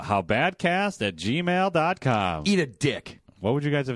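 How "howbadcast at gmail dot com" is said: slow, deliberate spelling out; slow and clear. Acted. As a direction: read it out slowly, carefully.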